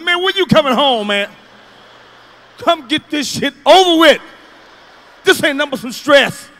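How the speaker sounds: loud desperate begging; pleading. Retold or imitated. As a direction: beg dad to hurry home. Kid begging father on phone.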